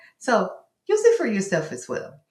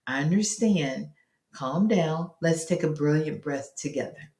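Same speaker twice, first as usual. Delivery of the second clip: calming parent. Acted. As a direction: settle an upset child gently. Parent calming child at bath time.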